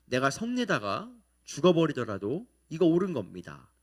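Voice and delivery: insistent mock defiance, hitting the key words hard; defiant retort. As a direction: dig in and argue back, as a retelling. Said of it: "끝까지 바득바득 어마어마하게 대들죠".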